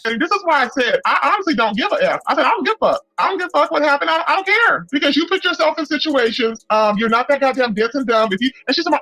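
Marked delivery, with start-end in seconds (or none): 2.4-4.9 tag. Retold or imitated. Quotes her own emphatic stance.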